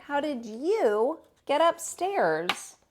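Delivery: very slow, lightly voiced kindly watchman. Watchman finding the bear, gently puzzled. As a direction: ask it slowly, amused. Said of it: "he said".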